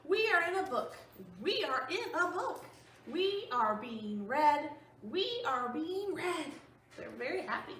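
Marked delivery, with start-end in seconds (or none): 0.1-6.5 a touch of excited elephant. Acted. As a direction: tell it with bubbling glee. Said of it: "He's so excited".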